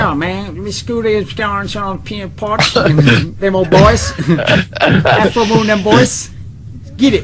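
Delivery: high, slow, hammed-up Southern redneck accent; mock Southern drawl. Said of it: "my version of when you fuckers are like".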